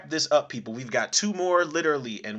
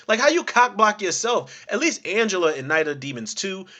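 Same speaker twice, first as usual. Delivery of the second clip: normal talking voice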